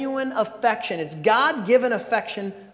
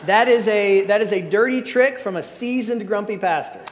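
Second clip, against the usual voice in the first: laughing tease; 3 dB louder than usual. Real, not acted. Joking about Pastor Jim.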